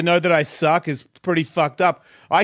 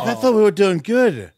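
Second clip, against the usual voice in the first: retold hurt; 6 semitones higher, 4 dB louder than usual. Retells own hurt reaction.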